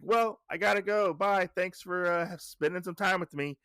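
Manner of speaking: lightly hammed-up high granny voice; old woman voice. Old woman quoted in recap.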